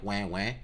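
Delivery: small, low-key mock "wah, wah"; ordinary kid cry, imitated. Showing what the kid's cry wasn't, half-hearted mock crying. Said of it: "it wasn't a kid going like".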